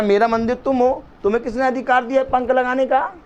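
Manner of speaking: high, indignant rebuke in quotation; remontrance divine. Retold or imitated. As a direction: voice God scolding from on high. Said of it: "कह रहा".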